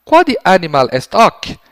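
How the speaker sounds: slow, loud Latin question. Shown as a demonstration. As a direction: ask it slowly for the child. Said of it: "vão lá".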